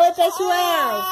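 slow whiny drawn-out hello; baby prompt. Shown as a demonstration. Mother prompts crying baby to greet viewers, slow and whiny. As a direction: coax the fussy baby, stretched out.

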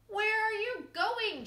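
high, loud wolf shout. A narrator's reading. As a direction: bark the question out. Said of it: "shouted the wolf".

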